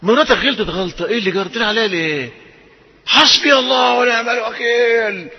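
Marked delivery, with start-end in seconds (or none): 3.1-5.3 high, slow, hammed-up wailing curse; mock curse. Preacher mimicking a wife cursing her husband, high wail. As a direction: drag it out like a wronged wife.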